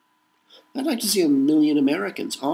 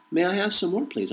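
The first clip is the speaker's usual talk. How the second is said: much higher, timid rising plea; pleading beggar; 8 semitones higher than usual. Pretend. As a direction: beg meekly like a hungry orphan. Repeated begging plea line.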